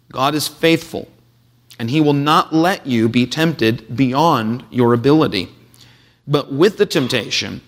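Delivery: measured, solemn reading of the passage; formal Bible reading; scripture reading. Acted.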